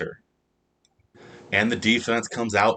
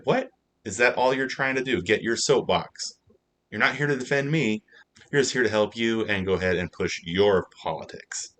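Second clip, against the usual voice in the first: higher, affronted questions; mock indignant Una; 3 semitones higher than usual. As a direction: call out the lawyer's hidden agenda. Una angry at her lawyer.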